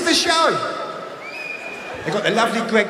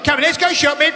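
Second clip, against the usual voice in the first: mock Greg; 6 semitones higher, faster than usual. Greg again.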